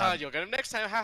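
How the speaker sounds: mock jolly consolation. Cheesy fan to knocked-out player, mock jolly consolation. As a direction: imitate a cheesy backslapper consoling someone.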